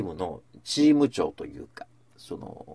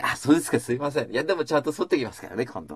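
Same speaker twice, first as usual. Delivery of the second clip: cheerful reassurance. Retold or imitated. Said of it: "笑顔で返されたわけ".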